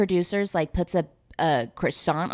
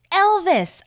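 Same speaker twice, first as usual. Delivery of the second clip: high, loud dramatic call; hammed-up cry to a lost lover; mock calling out; 12 semitones higher, 5 dB louder than usual. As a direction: call the name out theatrically. Retold Miranda calling out to him.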